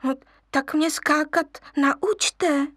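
begging little lion; wheedling. Acted. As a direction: wheedle for a favour. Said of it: "loudil lvíček".

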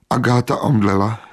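plain reading voice

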